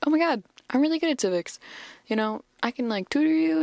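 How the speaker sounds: quick, high, eager gush; excited Daphne. Retold or imitated. Daphne excitedly offering Fred civics tutoring, a quick high gush. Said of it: "Daphne gets excited".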